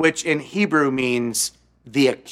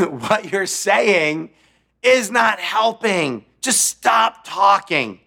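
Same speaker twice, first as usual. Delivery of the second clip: exasperated plea; 5 semitones higher, slower than usual. Retold or imitated. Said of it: "That's what Job tells his friends".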